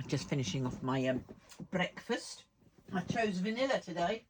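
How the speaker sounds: talking between slurps of a drink; sipping through a straw mid-sentence; slurping. Real, not acted. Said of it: "excuse the slurping".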